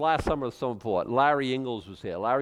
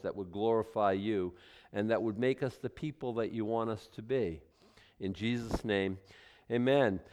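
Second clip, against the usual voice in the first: prayer; 3 semitones lower than usual. Acted. Pastor leads opening prayer.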